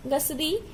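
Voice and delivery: "गसरी" with a sibilant s in place of chh; incorrect pronunciation. Shown as a demonstration. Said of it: "छ को श". ("गसरी" में छ की जगह स का उच्चारण)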